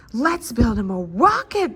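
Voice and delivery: shouted together. A narrator's reading. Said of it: "they all shouted together".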